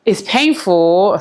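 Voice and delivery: slow, fighting back tears; close to tears. Real, not acted. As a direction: let the words catch as tears rise. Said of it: "Sorry, I'm gonna cry".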